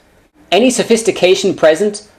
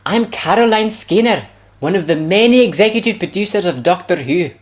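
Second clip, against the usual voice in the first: 1 mock producer; 5 semitones higher than usual. Parody voicing Caroline Skinner.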